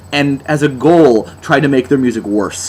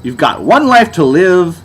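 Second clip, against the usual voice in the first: mock lyric recital. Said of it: "such deep lyrics as".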